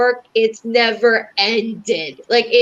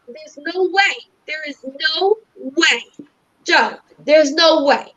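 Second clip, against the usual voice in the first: higher, emphatic repeated denial; shaking his head at the idea; insisting to Joe that nothing could help; animated insistence; 4 semitones higher than usual. Retold or imitated. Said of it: "he's very animated".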